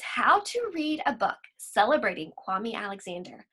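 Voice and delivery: gentle poem reading; unhurried expressive recital; own poem recital. Acted. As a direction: share your poem like a reading. Reads her own poem aloud.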